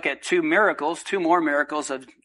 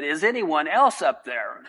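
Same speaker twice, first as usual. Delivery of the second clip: punchline calling out. Acted. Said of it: "the man looked up again and said".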